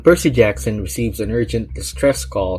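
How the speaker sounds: emphatic trailer-style narration; dramatic book blurb read. Acted. Reviewer introducing the book to viewers, dramatic blurb read. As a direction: read it like back-cover copy with suspense.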